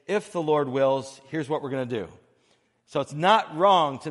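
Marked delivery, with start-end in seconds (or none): 0.1-2.1 earnest, unhurried, heartfelt; mean every word as a real prayer; sincere submission. Shown as a demonstration. Preacher modeling a sincere prayer that submits plans to God. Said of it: "the posture of heart that says".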